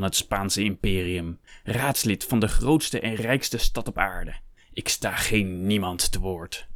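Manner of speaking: slow, emphatic self-importance; pompous, offended declaration; haughty indignation. Acted. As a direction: pull rank, weighing each word. Hector pulls rank in quarrel.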